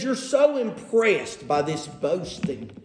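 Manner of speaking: drawn-out sarcastic admiration; mock how impressed they are. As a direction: lean sarcastically on the praise. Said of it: "Can you hear the sarcasm?".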